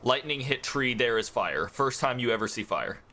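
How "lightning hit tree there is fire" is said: slow broken caveman talk; caveman speech. Shown as a demonstration. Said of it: "give me your best Neanderthal".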